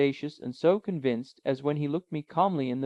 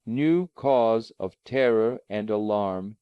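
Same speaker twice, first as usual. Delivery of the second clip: even, composed uncle asking gently; calm uncle. Acted. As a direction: soothe the frightened nephew. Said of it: "he said in his calmest manner".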